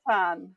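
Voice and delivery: CATAN with a short A, in a British accent; British pronunciation. Shown as a demonstration. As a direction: say Catan the British way, matter-of-fact. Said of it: "I'm British".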